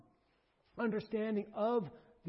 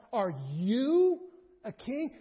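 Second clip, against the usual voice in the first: "Are you a king?" drawn out slowly, louder, rising on "you"; slow stressed question; 3 semitones higher, 6 dB louder, slower than usual. Shown as a demonstration. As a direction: let the question hang in slow disbelief. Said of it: "Or perhaps".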